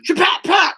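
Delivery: quick high gavel knock sounds; gavel bang noise. Pretend. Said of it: "I need a hammer banger".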